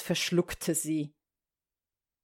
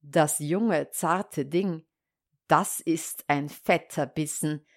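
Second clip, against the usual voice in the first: lower, musing to himself; a hint of a hungry wolf; lightly voiced scheming wolf; 4 semitones lower than usual. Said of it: "Der Wolf dachte bei sich".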